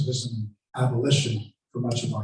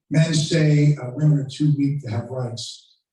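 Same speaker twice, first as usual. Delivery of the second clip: louder, rising to the orator's cry; impassioned speech; 2 semitones lower, 4 dB louder than usual. Retold or imitated. Lecturer channels Sojourner Truth addressing a crowd, louder declaiming. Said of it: "She'll say something like".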